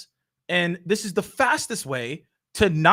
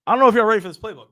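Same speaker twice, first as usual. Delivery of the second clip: teasing hype; 4 semitones higher, 7 dB louder, much faster than usual. Acted. Teasing hype before sharing.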